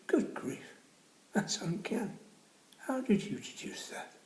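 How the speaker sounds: put-on high, breathy astonished old man; amazed old boy. Old boy amazed at the lady, high and breathy. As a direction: gasp it out in disbelief.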